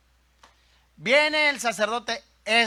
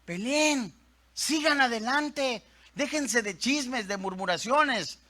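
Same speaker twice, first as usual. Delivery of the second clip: Nehemías; 4 semitones higher, slower than usual. Acted. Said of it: "Nehemías se levanta a decirle a los hombres".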